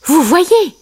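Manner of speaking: high-pitched character remark; Simba. A narrator's reading. Simba shows his catch, high voice. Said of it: "dit Simba".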